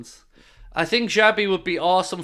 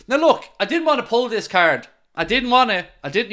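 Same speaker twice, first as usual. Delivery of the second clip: raised, louder mock-dramatic protest; a higher, louder melodramatic I-didn't-want-to; mock reluctant; 6 semitones higher, 5 dB louder than usual. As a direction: ham up the reluctance. Mock reluctant card-pulling speech.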